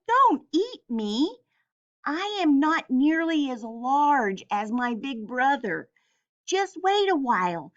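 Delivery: high pleading goat voice; a little frightened. Acted. Middle goat pleads with the troll in a high voice. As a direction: beg the troll, a bit scared. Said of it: "was a little frightened".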